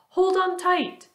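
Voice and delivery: high, stretched-out warning call; excited shout. A narrator's reading. Grasshopper warning the others as floor heaves, excited call. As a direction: call out slowly and high to everyone. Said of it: "shouted the old green grasshopper".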